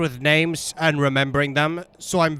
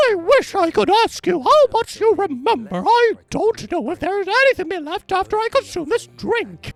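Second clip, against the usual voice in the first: much higher reading voice; high, strained character voice. Acted. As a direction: read the letter in a high voice. Reads Alexander's note in voice.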